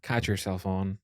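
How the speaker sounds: low, soft Derry slang imitation; Derry accent. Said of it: "watching Derry Girls and I love their slang".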